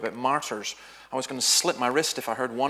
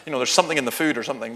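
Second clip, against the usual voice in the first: inner exasperation; 7 dB louder, faster than usual. Retold or imitated. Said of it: "I thought".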